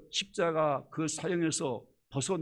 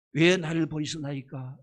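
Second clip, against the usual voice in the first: heavy lament; 6 dB louder than usual. Retold or imitated. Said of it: "그것도 얼마 컸던지".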